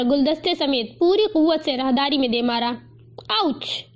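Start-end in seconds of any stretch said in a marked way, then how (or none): 3.3-3.8 higher-pitched startled ouch; a small, flustered cry of being hit; mildly rattled yelp. A narrator's reading. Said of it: "کسی کی بکھلائی ہوئی آواز".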